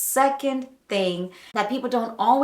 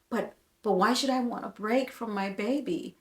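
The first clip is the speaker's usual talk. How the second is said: softer, hesitant inner questioning; self-doubting thoughts; 5 dB quieter than usual. Retold or imitated. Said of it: "there's the thoughts now".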